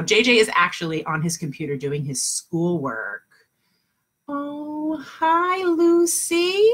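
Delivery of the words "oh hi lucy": delighted greeting. Real, not acted. Teacher greeting a pupil who just joined, high excited lilt. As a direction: coo a happy, lilting hi. Greeting a child joining live lesson.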